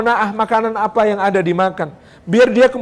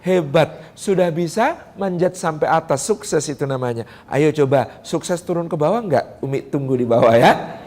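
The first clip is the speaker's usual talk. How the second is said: gentle encouragement; 4 semitones lower, 3 dB quieter than usual. Shown as a demonstration. Mother praising a climbing child, soft and encouraging. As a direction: coax the child down kindly. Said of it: "ngomong apa yang bener".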